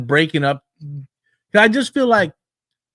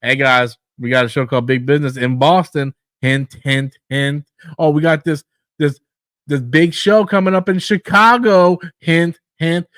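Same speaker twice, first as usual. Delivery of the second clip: mock announcement; 2 semitones lower than usual. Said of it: "But when you sit there".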